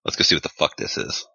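low, half-whispered grumble; low mutter. Acted. Player's agent heading in to investigate, muttering low. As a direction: grumble it under your breath, low.

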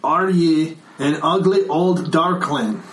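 put-on loudly repeats the insult for the half-deaf old man. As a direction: repeat it slowly for a deaf ear. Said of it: "Excuse me, I'm a little deaf in this ear".

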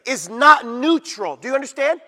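loud, driving pulpit delivery; fiery preaching. Acted. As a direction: preach it hard to the congregation. Preaching on culture vs scripture.

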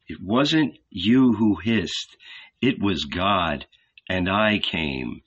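calm. Acted. Jesus speaks serenely.

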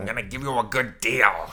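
put-on sales patter voice; used car salesman. Manager pitching the kid to couple, mock salesman voice. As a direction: wheel and deal in a mock voice. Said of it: "like, a used car salesman".

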